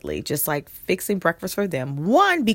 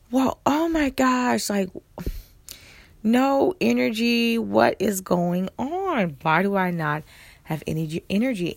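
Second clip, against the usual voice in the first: mock dismay; 5 semitones higher than usual. Dramatizing her lack of energy.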